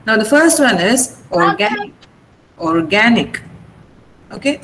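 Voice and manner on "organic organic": organic with GAN stressed; stress on second syllable. Shown as a demonstration. Teacher models organic for class, stress on GAN. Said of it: "then the second syllable is stressed".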